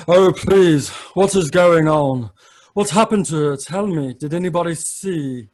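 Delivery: high, loud, panicked plea; fussy magician in a panic; frantic magician. Acted. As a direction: rush in begging for answers.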